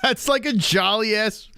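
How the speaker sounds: high, slow words through laughter; giggly, breaking-up delivery; laughing hard. Real, not acted. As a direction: struggle to speak while cracking up. Still laughing at the jolly voice.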